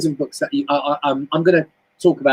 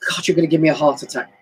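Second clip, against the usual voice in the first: exasperated woman; 2 semitones higher than usual. Retold or imitated. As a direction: ham up a fed-up woman blaming someone. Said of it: "will turn around and go".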